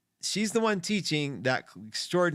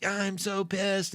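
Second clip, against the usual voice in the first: higher, drawn-out mock exasperation; upset, pissed off; 6 semitones higher, much slower than usual. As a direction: act out being pissed, slow and raised in pitch. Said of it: "I get all upset".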